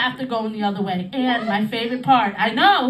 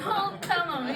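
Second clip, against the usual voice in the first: softer, quick, conspiratorial; hushed aside; 5 semitones higher, 7 dB quieter, slower than usual. Acted. Comic repeating her plea to the crowd, hushed.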